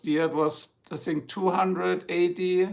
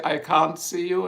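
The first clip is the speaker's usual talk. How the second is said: British "can't". Shown as a demonstration. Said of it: "So in British, they would say".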